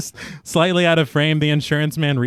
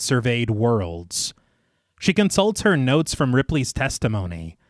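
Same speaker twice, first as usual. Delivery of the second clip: story narration. A narrator's reading. Narrator recaps the inquiry scene for listeners, measured storytelling. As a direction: read it like a polished audio storyteller. Reads scripted film recap.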